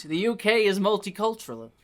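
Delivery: put-on Elisa's light Albanian accent on multicultural. Albanian woman explains Britain, in a light Albanian accent. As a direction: say it as Elisa would, with an Albanian lilt. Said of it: "I can't say that word in this accent".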